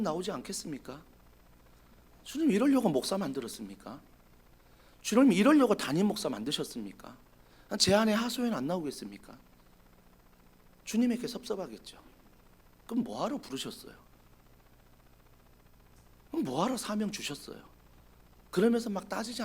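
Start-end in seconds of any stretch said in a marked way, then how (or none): 2.2-9.4 quieter complaining prayer; soft lament. Acted. Pastor complaining to God, soft and hurt. 12.9-17.6 much softer hurt questions; quiet reproach. Acted. Elijah quietly reproaching God for his calling.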